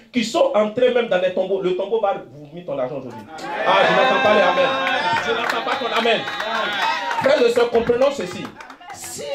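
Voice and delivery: steady, declaiming sermon voice; a pastor declaring blessing over the faithful; fervent preaching. Real, not acted. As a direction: proclaim it to the congregation.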